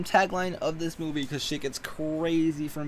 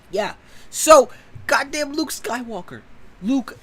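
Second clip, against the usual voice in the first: loud, higher cry of disbelief; exasperated outburst; 9 semitones higher, 4 dB louder than usual. Real, not acted. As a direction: throw up your hands at Luke.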